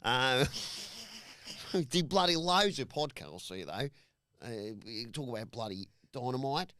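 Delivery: half-hearted Aussie bloke; lightly done Australian accent. Pretend. Host introducing the podcasts in a mild mock Australian accent. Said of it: "The accent has gone to his brain".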